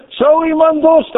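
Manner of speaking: high ringing proclamation; roepend, niet zacht. Acted. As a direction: call it out to wake the sleepers. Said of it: "hij riep ... niet met een zachte stem".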